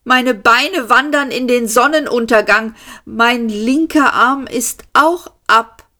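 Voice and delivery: high, stretched-out bewildered voice; bewildered Arthur. A narrator's reading. Arthur watching his body come apart, high and bewildered. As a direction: report the chaos in a high, dazed voice.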